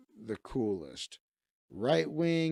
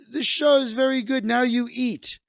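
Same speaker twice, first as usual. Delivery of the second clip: put-on a light Mexican accent, higher and louder; 8 semitones higher, 5 dB louder than usual. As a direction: play the grateful host with a Mexican accent. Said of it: "likes my Mexican voice".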